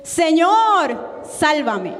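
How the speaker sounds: clamor actuado, agudo y alargado en «Señor»; grito imitado de auxilio. Retold or imitated. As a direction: imita un grito pidiendo socorro, luego baja la voz. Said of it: "Él dio un grito". (grito de súplica representado)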